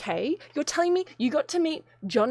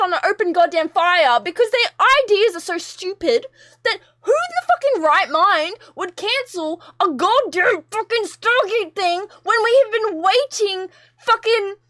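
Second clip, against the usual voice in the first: drawn-out, choked-up fury; furious rant; 4 semitones higher than usual. Real, not acted. Vlogger raging at the one who cancelled Stargate, choked-up fury. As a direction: spit it out, near tears.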